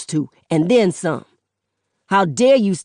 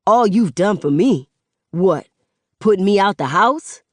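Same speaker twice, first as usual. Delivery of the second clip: angry accusation; 4 semitones higher, 5 dB louder than usual. Acted. Son accusing mother.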